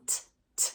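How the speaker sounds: "t" tapped in short clicks; clock sound. Shown as a demonstration. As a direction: tick out "t". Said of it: "the clock sound".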